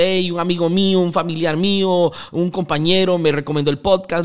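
ordinary talk, nothing marked

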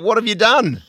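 a hint of a shocked mother; host mimicking the guest's dismayed mother; unimpressed mother.

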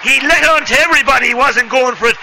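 excited commentary. Real, not acted. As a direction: still buzzing after the goal. Aftermath of goal.

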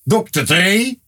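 high-pitched playful exhortation; mock pleading. Fan urging a rapper to release an album, high mock plea. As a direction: plead up high, as if calling to him.

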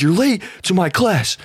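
mock scolding. Professor scolding.

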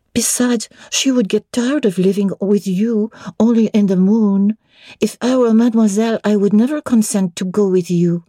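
put-on high child voice asking in French; little French girl. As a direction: ask it like an eager little girl. Adele argues.

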